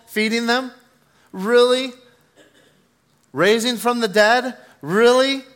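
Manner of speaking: high, loud, sneering devil whispering doubt; mock them like a scoffing devil in the ear. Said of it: "the devil's speaking into our ear and going".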